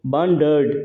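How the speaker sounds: "wandered" pronounced deliberately as wan-dered; syllable demo. Shown as a demonstration. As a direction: sound out "wandered" in two clear syllables. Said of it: "wandered इसको पढ़ो".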